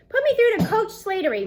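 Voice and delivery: teacher insisting into the intercom. Acted. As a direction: demand it, no arguing. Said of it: "Mister Kermit insists".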